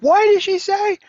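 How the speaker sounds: high, loud mock yell; a hammed-up yell of what did she say; mock screaming. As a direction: shout it like a typed all-caps message. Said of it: "we don't want you screaming at us like".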